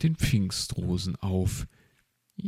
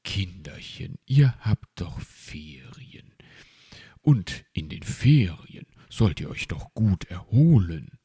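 friendly tone. Acted. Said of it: "in freundlichem Tonfall".

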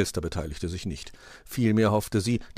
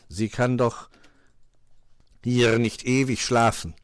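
loud, raised crow voice; cawing crow master; 4 semitones higher, 5 dB louder than usual. A narrator's reading. Crow proposes helping Frau Holle, cawing. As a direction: urge it weightily, ending on a caw.

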